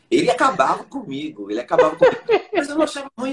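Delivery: laughing out loud remembering the teacher. Real, not acted. Laughing recalling harsh teacher.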